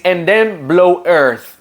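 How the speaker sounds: "earth" ending on a long blown TH; slow "blow earth" with the air pushed out; TH demo. Shown as a demonstration. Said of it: "Like this".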